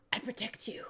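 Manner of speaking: whisper. Acted. Paru voiced protectively.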